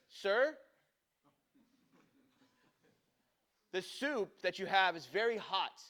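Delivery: mock waiter explaining with great deliberation; patronizing waiter. Waiter stalling a customer over hot soup, patronizing. Waiter's pompous excuse, acted out.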